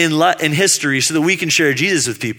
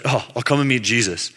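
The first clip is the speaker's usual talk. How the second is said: softer, unimpressed put-on voice; half-hearted, unenthused; grudging mock reluctance; 4 semitones lower, 4 dB quieter than usual. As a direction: drag it out like a reluctant friend. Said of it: "He's like".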